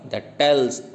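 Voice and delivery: "that tells" as one pair, stress on tells; light "that", strong "tells"; iambic foot. Shown as a demonstration. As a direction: set "that tells" apart as a da-DUM beat. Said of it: "चौथा".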